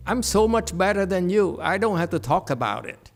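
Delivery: smug humility. Retold or imitated. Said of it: "because you say".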